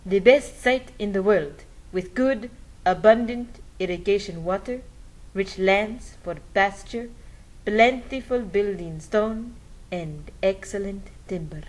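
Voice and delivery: put-on a light Spanish accent for the friar's words; the speaker's Spanish accent. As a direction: read the friar's praise in a mild Spanish accent. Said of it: "Can I do my Spanish accent?".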